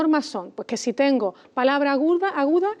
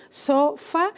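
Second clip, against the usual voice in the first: "sofá" as so, fá, separated; split into syllables; 2 semitones higher than usual. Shown as a demonstration. Teacher dividing a word for the listener, syllables apart. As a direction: say "sofá" one syllable at a time. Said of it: "la partimos en sílabas".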